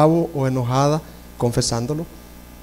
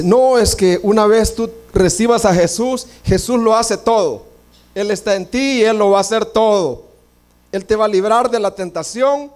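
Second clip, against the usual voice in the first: quoting naive believers; 5 semitones higher than usual. Retold or imitated. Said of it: "hay una línea de cristianos que dice".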